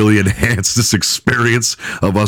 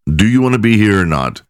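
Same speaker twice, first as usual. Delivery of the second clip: polite. Retold or imitated. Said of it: "He's just politely".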